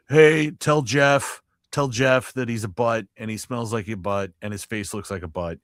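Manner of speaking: hammed-up silly request; mock fan request. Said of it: "and it's all like".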